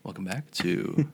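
NPR host voice. Retold or imitated. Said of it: "that's my N P R".

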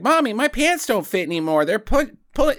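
put-on a little boy complaining to his mother; child to mom. Kid tells mom his pants don't fit, mildly whiny imitation. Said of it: "comes up to his mom and he's like".

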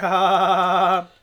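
forced, hammed-up awkward laugh; awkward laughter. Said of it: "Cue the awkward laughter".

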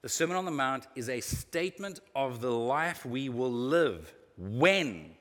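deliberate reading with long pauses; slow reading. Real, not acted. Preacher reading a quote to marinate on, slowly. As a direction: read it slowly so each phrase can sink in. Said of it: "Let me read this slowly".

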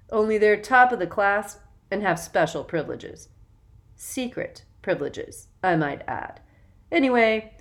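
put-on loud, self-important young man; bossy older boy. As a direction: lecture the new kids, puffed up. Jackson instructs new boys.

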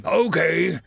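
steady yourself, then demand it; forced calm. A narrator's reading. Forcing calm after a deep breath.

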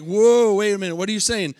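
loud "whoa", then quick questioning; mock startled listener. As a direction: act out a listener halting the preacher. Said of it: "some of you are kinda like".

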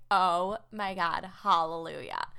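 slow, drawn-out mock joy; mock relief. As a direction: stretch it out like a small miracle. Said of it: "I'm like".

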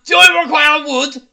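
lightly put-on German ad read. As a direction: announce it like a hammy German advert. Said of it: "we should do the ads in German".

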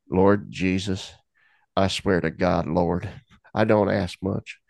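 slow, understated plea to the Lord; desperate prayer. Retold or imitated. Single dad begging God for his sanity, understated desperation. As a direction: re-enact a weary, desperate prayer, taking it slowly. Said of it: "My prayer was one of desperation".

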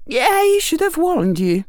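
sorry but amused; sincere witch. A narrator's reading. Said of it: "sounding sincere".

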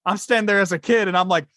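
high-pitched indignant child, hammed up; protesting kid. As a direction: imitate a kid demanding an answer. Retells joke as protesting kid.

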